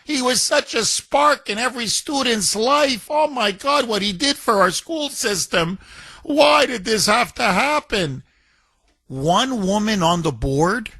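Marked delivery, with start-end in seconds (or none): 0.0-8.2 high mock wail; sarcastic imitation of teary grief; mock crying. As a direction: mimic a weepy board member. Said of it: "the board members started to cry".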